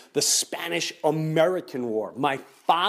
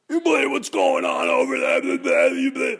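agitated shout; 10 semitones higher, 6 dB louder than usual. Retold or imitated. Imitating an agitated worrier.

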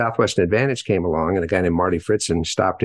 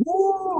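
high, drawn-out "woo" at usual volume; excited whoop. Retold or imitated. Speaker imitates cartoon man at his paperwork, excited whoop. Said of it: "He was all excited".

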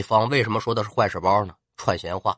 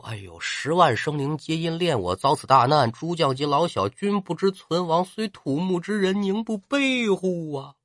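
softer, mournful grieving speech, slowing at the end; tearful lament; 3 semitones higher, 3 dB quieter than usual. Acted. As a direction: mourn the lost people. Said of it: "这玄德也哭". (刘备悲叹百姓，带着哭腔)

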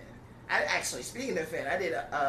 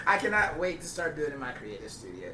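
laughing. Real, not acted. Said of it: "Where did this even come from?".

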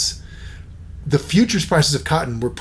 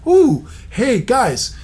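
excited gossip; 5 semitones higher than usual. Retold or imitated. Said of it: "They'll publish it that".

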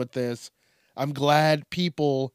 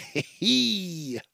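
higher, long "hee" laugh; high drawn-out laugh; 5 semitones higher than usual. Real, not acted. Host hyping his own nickname, high drawn-out laugh. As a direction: let out one drawn-out giggle.

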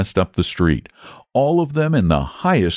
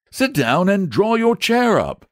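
knight voice; 12 semitones higher than usual. Acted. Saint welcoming the boy.

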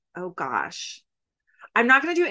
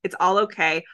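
put-on terrible Australian accent. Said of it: "what that accent I was about to try. It was terrible".

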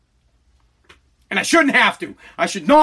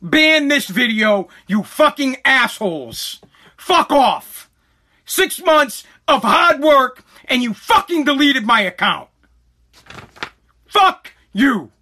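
planned angry first video to TikTok, furious; angry rant at TikTok; 4 semitones higher, much slower than usual. Pretend. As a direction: spit it out slowly at the app. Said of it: "I'm gonna say".

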